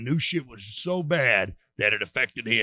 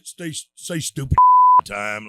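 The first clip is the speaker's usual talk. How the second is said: laughing; 4 semitones higher, 11 dB louder, slower than usual. Real, not acted. Laughing at his own joke story.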